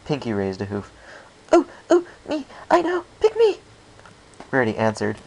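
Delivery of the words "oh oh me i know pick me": very high, loud, bouncing eagerness; eager pick me. A narrator's reading. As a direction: beg to be picked, like a keen pupil. Pinkie eager to answer.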